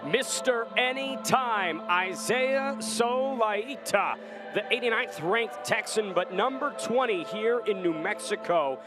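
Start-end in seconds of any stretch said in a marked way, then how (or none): 0.1-4.2 drawn-out fighter name. Acted. Commentator hypes fighter name.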